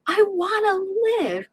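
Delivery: heartfelt plea to survive; crying out. Retold or imitated. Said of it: "I cried out".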